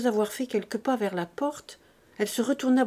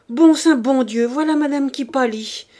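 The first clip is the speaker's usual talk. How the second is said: loud, raised servant's outcry; urgent, high-pitched exclamation; alarmed cry; 5 semitones higher, 10 dB louder than usual. A narrator's reading. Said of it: "cria Nanon".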